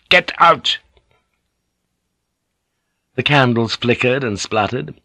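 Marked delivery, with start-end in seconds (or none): 0.1-0.8 much higher, loud furious bark of Get out; shouted dismissal. A narrator's reading. Yabu finally roars at Igurashi to get out, high and loud.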